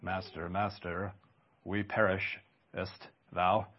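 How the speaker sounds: put-on low, soft, old-fashioned desperate plea; a hushed archaic cry for help; archaic frightened plea. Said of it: "I wish we could hear the sound of their cries".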